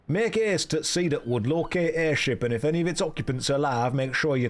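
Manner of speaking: officer's orders, lightly Yorkshire; a hint of drifting Yorkshire dialect; wandering Yorkshire accent. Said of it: "His accent has changed as this has gone on".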